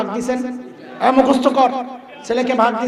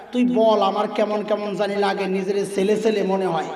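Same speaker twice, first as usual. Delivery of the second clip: soft coaxing voice; 4 semitones lower, 3 dB quieter than usual. Retold or imitated. Feminists coaxing the girl.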